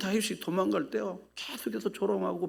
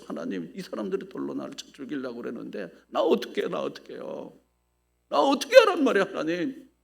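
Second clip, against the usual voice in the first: desperate plea. Acted. Moses' desperate prayer acted.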